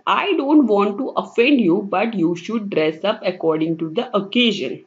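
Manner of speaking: very slow, careful reading of an English sentence; slow example reading. Acted. Teacher reading example sentence to students, slowly. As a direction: read the example out word by word.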